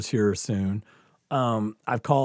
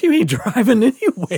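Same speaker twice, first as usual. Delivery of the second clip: higher, louder, half-laughing no; firm refusal; 9 semitones higher, 6 dB louder than usual. Retold or imitated. Cop tells the teen he won't drive, firm. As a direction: shut the idea down flat.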